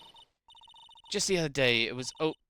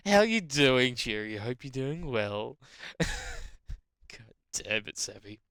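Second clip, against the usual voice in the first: ordinary delivery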